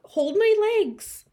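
high, loud panicked plea. Acted. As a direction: cry out for support. Losing balance on stool.

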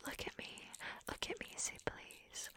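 breathy hushed whisper. Acted. Teasing partner whispering to him. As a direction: whisper it close to his ear.

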